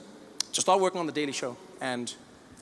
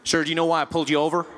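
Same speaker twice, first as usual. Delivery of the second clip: American policeman; faster than usual. Retold or imitated. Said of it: "Policeman walked up to my window".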